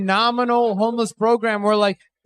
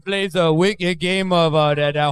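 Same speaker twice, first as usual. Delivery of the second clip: put-on Minnesota accent; 3 semitones lower than usual. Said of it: "That's what Minnesotans say".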